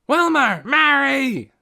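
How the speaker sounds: high, loud calling out; shouted call. A narrator's reading. Ben shouting for the other leaders. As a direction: summon them over the noise. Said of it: "shouted Ben".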